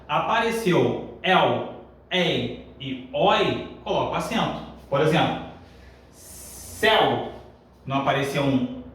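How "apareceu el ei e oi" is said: 1 slow teaching emphasis. Shown as a demonstration. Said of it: "teacher spelling out diphthongs".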